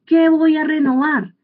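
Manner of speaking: put-on stubborn old person.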